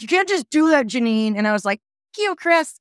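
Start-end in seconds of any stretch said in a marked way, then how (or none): 0.0-1.4 high, indignant put-on voice; mock roommate protest. Roommate objects to her storming in, high indignant voice. 2.1-2.7 high, mocking brush-off; sarcastic retort. She brushes off the roommate, high sarcastic jab.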